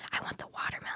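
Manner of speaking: quiet, breathy whispering. Retelling how friends whispered to the speaker at a kiosk: imitating a whisper.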